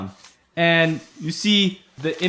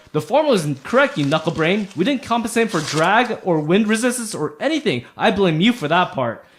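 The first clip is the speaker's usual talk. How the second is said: higher-pitched bickering gnome retort; lightly voiced quarrelsome gnome; arguing gnome; 3 semitones higher than usual. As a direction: throw the blame back, pitch swooping up. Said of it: "they're, like, arguing with each other".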